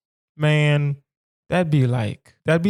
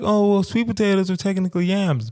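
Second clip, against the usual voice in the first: know-it-all; 5 semitones higher than usual. Retold or imitated. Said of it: "some people are like".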